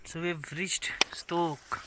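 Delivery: soft breathy whisper, slowed right down; slow, hushed whisper at the monastery. Real, not acted. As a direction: hush your voice near the statue. Whispering at the quiet statue.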